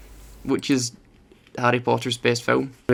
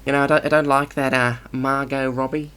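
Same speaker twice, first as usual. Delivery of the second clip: put-on Australian accent; 3 dB louder than usual. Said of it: "Australian accents".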